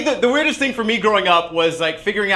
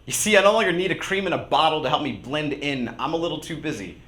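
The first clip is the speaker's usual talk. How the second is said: rhythmic, emphatic spoken-word delivery; slam poetry. Acted. Poet answering a L'Oreal ad before a slam crowd, performing spoken word. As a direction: perform it as a slam poem, leaning on key words.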